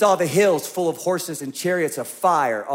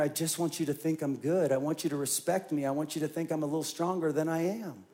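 a soft, confessional admission; confessing inner thought; 4 semitones lower, 12 dB quieter than usual. Acted. Churchgoer confessing hidden pride, soft and confessional. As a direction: say the secret wish almost under your breath.

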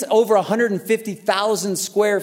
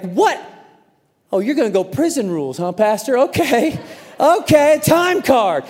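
mock indignation; 3 semitones higher than usual. Acted indignant muttering to himself, retold.

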